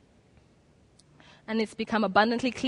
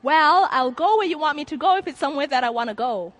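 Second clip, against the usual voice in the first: sarcastic; 4 semitones higher, 3 dB louder than usual. Retold or imitated. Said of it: "I was like".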